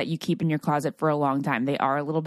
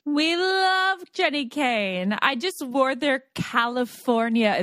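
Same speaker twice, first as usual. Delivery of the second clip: gushing; 6 semitones higher, slower than usual. Acted. Gushing ad read.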